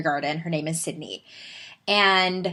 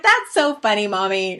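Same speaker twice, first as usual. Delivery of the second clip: higher, louder imitation of a tickled little girl; amused daughter; 3 semitones higher, 5 dB louder than usual. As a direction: mimic a child delighted by mom's joke. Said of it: "she was like".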